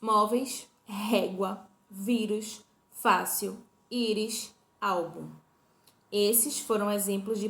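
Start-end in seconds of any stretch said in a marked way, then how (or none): 0.0-5.3 "móveis, régua, vírus, fácil, íris, álbum" one by one, punching each first syllable; stress on penultimate syllable. Shown as a demonstration. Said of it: "a penúltima sílaba como sílaba tônica". ("móveis, régua, vírus, fácil, íris, álbum": palavras pausadas, penúltima sílaba forte)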